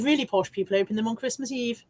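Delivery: lightly put-on posh English accent; a hint of received pronunciation. Streamer reading a viewer's comment, lightly posh. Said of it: "speaks in that voice".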